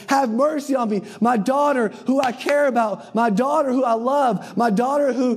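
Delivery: high, insistent mother's appeal; persistent pleading. Retold or imitated. Mother begging Jesus for her daughter, persistent pleading. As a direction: plead for your daughter over and over. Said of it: "over and over persistently saying".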